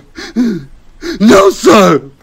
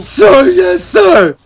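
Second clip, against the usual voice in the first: higher barked yes sir; recruit shout; 9 semitones higher, slower than usual. Acted. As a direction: shout it back at the sergeant. Recruit answering drill sergeant.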